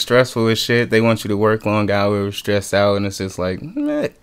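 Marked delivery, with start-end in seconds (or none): 3.6-4.1 bored meh. Real, not acted. Dismissing stressful ad work.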